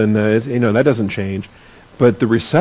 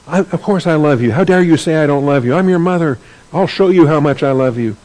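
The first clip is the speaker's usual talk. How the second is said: lightly voiced scolding mother, pitched a little higher; indignant grandma; 4 semitones higher than usual. Grandma answering her spanked son's accusation, mock-indignant scolding. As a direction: imitate a mother indignantly insisting on her love. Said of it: "then my grandma Mary, she, um".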